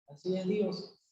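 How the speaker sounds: hushed, lightly acted child; small quiet voice; child's soft question. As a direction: ask it very softly, in wonder. Child's question repeated softly.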